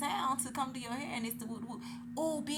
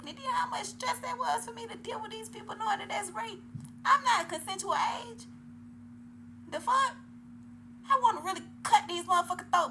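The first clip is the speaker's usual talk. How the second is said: much higher and louder, furious; outraged; 8 semitones higher, 6 dB louder than usual. Real, not acted. Telling viewers about being exploited, furious outcry. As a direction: let the anger about the past burst out.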